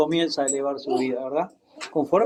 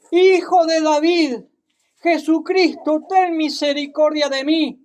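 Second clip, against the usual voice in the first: crying out; 8 semitones higher than usual. Acted. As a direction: call out to Jesus for mercy. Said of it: "comenzó a gritar".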